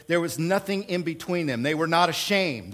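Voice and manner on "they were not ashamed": "not" given the emphasis; accent falls on "not"; stress on NOT. Shown as a demonstration. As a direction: lean on "not" as the key word. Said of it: "That's the emphatic place".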